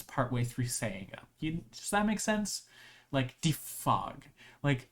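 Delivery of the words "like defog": DEfog, first syllable punched, slow; stress on the E. Shown as a demonstration. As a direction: lean hard on the E of defog. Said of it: "all the emphasis, emphasis is on the E".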